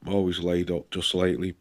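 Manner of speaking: bunged-up nose from a cold; blocked nose. Real, not acted. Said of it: "Sorry if I sound like I've got a peg on my nose".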